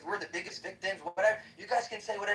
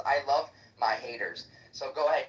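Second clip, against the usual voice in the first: reading out the bio; 4 semitones lower than usual. Shown as a demonstration. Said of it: "It says".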